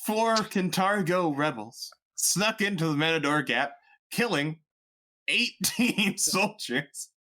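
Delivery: newscaster voice. Acted.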